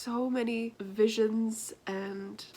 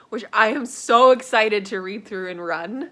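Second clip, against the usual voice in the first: excited; 10 dB louder than usual. Real, not acted. Excited about gift.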